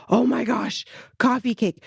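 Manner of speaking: high, eager gush over a favorite cake; light the words up like a fond memory; imitating husband's delighted cry; excited recognition. Husband excited about coffee cake.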